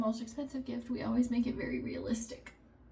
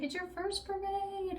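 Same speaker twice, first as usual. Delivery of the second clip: put-on high, slow, sweet voice for a little kid; a mock-gushing mom, high and slow; sing-song parent voice; 9 semitones higher, 6 dB quieter than usual. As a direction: coo it like announcing a treat. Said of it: "I was like".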